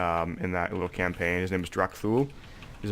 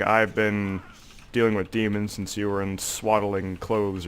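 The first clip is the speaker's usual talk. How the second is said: orc warlock quote; slower than usual. Retold or imitated. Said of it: "And he's all like".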